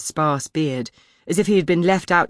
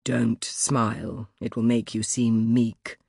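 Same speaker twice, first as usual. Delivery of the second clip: slow, lower, softer grandmother warning; stern grandmother; 4 semitones lower, 4 dB quieter, slower than usual. Retold or imitated. Remembered grandmother warns the girl, slow and low. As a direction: recall grandmother's cold advice, slowly. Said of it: "Grandmother's voice wormed its way".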